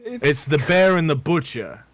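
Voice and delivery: a scornful, mildly hammed-up tavern keeper, incredulous; gruff barkeep's outrage. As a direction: play the barkeep offended by a salad order. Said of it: "he says".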